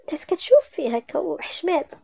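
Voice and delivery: ordinary delivery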